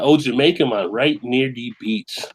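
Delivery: lightly put-on Jamaican accent, drawn out at the end; casual mock Jamaican lilt, slowing down; playful Jamaican accent. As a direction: read it with a hint of Jamaican accent. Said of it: "breaking it down to the Jamaican accent".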